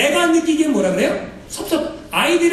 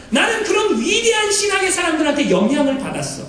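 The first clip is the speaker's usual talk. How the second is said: boastful bragging; 3 semitones higher than usual. Retold or imitated. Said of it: "자랑을 막 해요".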